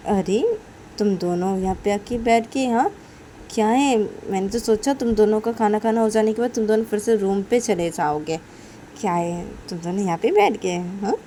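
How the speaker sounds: a touch of exclaiming surprise; mock surprised questioning. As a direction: tease them with surprised questions. Character acts surprised at the pair.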